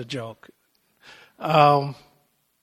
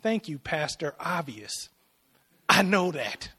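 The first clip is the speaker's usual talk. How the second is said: annoyed. Retold or imitated. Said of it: "you're looking at 'em annoyed like".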